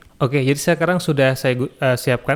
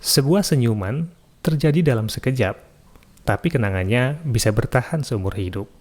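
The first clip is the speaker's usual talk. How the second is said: brighter, more lifted opening on Sebuah, then settling down; second intonation of the quote. Shown as a demonstration. Recording tutor demos a second quote intonation, lifted start. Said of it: "menggunakan intonasi yang kedua".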